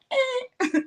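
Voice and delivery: high, unimpressed grunt; mock reluctant husband. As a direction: shrug it off as the husband.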